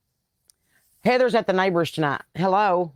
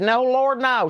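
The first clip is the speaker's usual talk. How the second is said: higher, protesting fan voice; imitating embarrassed fan; 7 semitones higher, slower than usual. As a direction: play the fan waving off a photo, pitched up. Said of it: "And she said".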